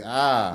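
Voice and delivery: exaggerated teasing exclamation; mock outcry. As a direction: re-enact a pretend cry of dismay. Re-enacts own playful outcry.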